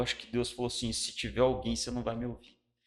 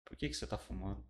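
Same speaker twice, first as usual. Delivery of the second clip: gentle divine voice; 8 dB quieter than usual. Retold or imitated. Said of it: "ele falou assim".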